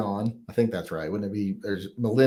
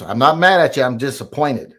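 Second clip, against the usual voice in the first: disappointed parent; 6 dB louder than usual. Retold or imitated. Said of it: "I was one of those".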